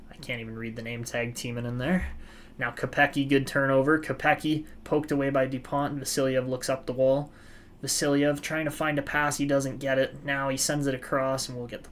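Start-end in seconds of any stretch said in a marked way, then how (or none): 1.3-11.5 lively hockey play-by-play call; sports commentator narrating the rush. Acted. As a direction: call the action as it happens. Live play-by-play of the game.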